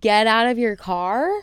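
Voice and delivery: slow, incredulous question with rising end; drawn-out mocking question; incredulous echo. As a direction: repeat the demand in disbelief. Incredulous echo of stranger's demand.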